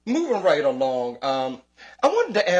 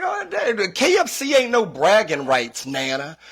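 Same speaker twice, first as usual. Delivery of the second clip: laughing disbelief; 8 semitones higher, 5 dB louder than usual. Retold or imitated. Kid mocking grandmother's KFC brag.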